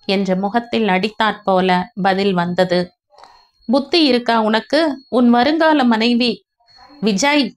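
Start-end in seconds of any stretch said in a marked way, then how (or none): 3.6-6.3 mildly raised scolding brother; scolding Vijay. Acted. Elder brother scolds younger about his fiancee, mild rebuke. 7.0-7.5 sharp raised cry of the name; shout. A narrator's reading. Younger brother cuts off his elder brother, sharp shout. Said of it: "கத்திவிட்டான் Anand".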